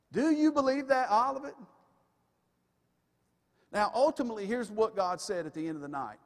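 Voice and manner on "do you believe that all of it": pressing louder. Acted. Preacher repeats question louder, higher.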